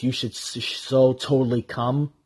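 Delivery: sexy voice. Retold or imitated. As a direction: purr the invitation. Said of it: "she goes in a sexy voice".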